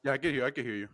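distant, faint audio; bad connection. Real, not acted. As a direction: voice dropping out over the line. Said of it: "Can you hear me?".

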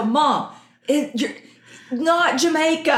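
kids' complaint, retold through laughter; imitated kids protesting. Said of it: "They all go".

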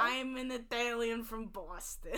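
put-on Italian from Boston, joke accent; badly faked Boston accent; mock Boston accent. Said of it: "like, Boston".

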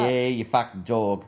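hammed-up Australian twang; bad Australian accent. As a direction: put on a poor Australian accent. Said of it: "It's the worst Australian accent".

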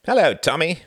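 loud, high cheery greeting; breezy grin. A narrator's reading. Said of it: "Reginald grinned breezily".

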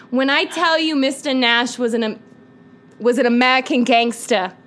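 lightly affected gangster introduction; put-on persona. Telling the co-host about Mister Nash, lightly put-on persona. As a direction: announce him with mock drama. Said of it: "I don't know why I'm doing that".

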